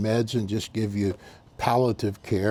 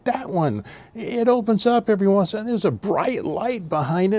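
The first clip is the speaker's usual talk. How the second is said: put-on confused old man; 10 semitones higher than usual.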